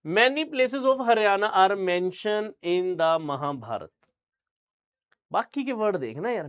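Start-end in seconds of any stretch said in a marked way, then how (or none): 0.1-3.9 very slow, loud, word by word; slow careful reading. Shown as a demonstration. Teacher reads the English line slowly to show his pronunciation. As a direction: read it out deliberately, each word spelled out. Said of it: "many को मैंने many ही बोला है".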